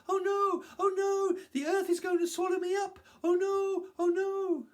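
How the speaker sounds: very high, loud monkey screams; panicked screaming. A narrator's reading. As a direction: scream the alarm as you flee. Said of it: "screaming as he went".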